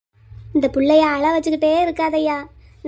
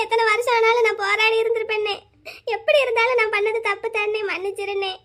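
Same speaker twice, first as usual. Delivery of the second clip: softer, tearful plea fading to almost nothing; crying apology; 2 semitones higher, 3 dB quieter than usual. Acted. Sister begs her brother's forgiveness, crying and fading quiet. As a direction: beg forgiveness through sobs.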